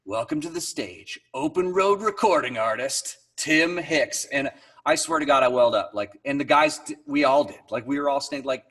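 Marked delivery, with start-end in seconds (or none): 0.0-4.3 lightly voiced show announcer; a hint of announcer, building to the name; stage announcer. Announcer introducing a singer to festival crowd, lightly imitated announcing. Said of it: "that they announced".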